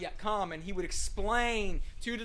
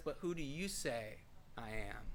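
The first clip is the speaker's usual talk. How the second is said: much lower and softer; softly spoken; 7 semitones lower, 9 dB quieter than usual. Acted. Jesus asking disciples along the way, softly spoken. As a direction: ask it gently, almost to yourself. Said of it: "Was it softly spoken along the way?".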